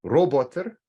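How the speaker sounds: Russian accent. Shown as a demonstration. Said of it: "with a Russian accent".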